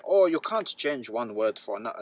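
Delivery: badly imitated German accent; a German father translating, in a poor accent; terrible German accent. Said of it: "that's a terrible accent".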